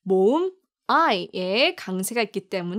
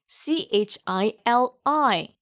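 slow spelling; much slower than usual. Shown as a demonstration. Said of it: "그리고 Chili".

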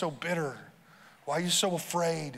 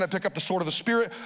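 fast prayer; faster than usual. Shown as a demonstration. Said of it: "See how fast I just prayed that?".

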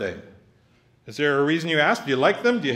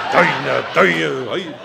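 mock Scottish yell; 6 dB louder, much slower than usual. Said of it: "Russian clog dancers".

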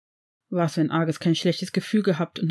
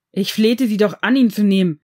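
loud, pleading cry near tears; tearful desperate plea; 3 semitones higher, 8 dB louder than usual. A narrator's reading. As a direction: beg with tears of despair in the voice. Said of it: "rief Severus mit Tränen der Verzweiflung".

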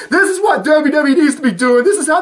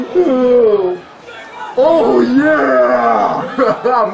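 excited shout; much slower than usual. Real, not acted. Cheering at wrestling match.

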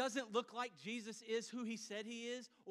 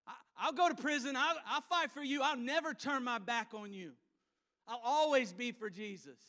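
higher, louder, laughing brag of loyalty; cocky boast; 4 semitones higher, 6 dB louder than usual. Acted. Peter brags he will never turn on Jesus, laughing and loud. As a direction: swagger through the promise.

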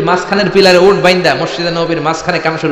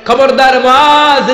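slow, drawn-out warning, pitched high; stern warning; 7 semitones higher, 4 dB louder, much slower than usual. Acted. Prophet warning Muadh not to lengthen prayers, slow stern call. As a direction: stretch the warning out like a raised finger. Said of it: "ধমক দিয়ে বললেন".

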